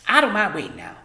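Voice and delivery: high, loud busy mother; bustling Homily. A narrator's reading. Mother shooing daughter from kitchen, high loud. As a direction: shoo her aside. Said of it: "said Homily".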